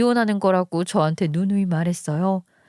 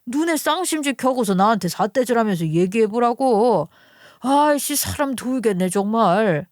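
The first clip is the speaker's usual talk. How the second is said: exasperated husband. Acted. Husband confronts his suddenly tearful wife, exasperated. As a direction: act the baffled husband losing patience.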